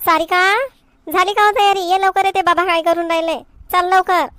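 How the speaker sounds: mother calling her daughter to hurry up. Acted. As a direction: call her from across the house to hurry. Mother calls daughter from afar.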